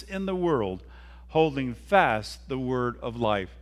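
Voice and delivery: slow, measured Bible reading; solemn slow reading with weighty pauses; scripture reading. Acted. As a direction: read the verse deliberately, phrase by phrase. Reads scripture aloud.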